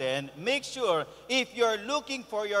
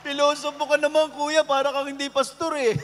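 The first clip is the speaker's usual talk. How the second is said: a louder, higher, laughing complaint; laughing tease; 5 semitones higher, 6 dB louder than usual. Retold or imitated. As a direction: tease the pastor through laughter. Counselee teasing, laughter. (pabirong reklamo habang tumatawa)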